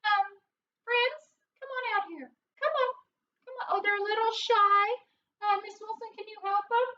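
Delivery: high, squeaky cartoon mouse; Minnie Mouse's regular voice. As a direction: speak up high in a squeaky character voice. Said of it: "this is my regular voice".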